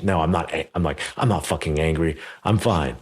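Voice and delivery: half-hearted angry protest; angry denial. Retold or imitated. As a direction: deny being angry while clearly angry. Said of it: "in the most angry voice possible".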